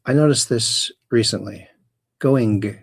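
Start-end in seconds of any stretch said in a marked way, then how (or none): 2.2-2.8 "Going" with extra emphasis on the last G; overpronounced final G. Shown as a demonstration. Streamer showing a habit noticed recently, overpronounced G in "Going". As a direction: finish "Going" on a hard, popped G. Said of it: "they put the extra em-, emphasis".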